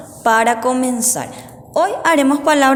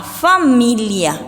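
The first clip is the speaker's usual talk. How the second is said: slow dictation; much slower than usual. Shown as a demonstration. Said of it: "sino por oído".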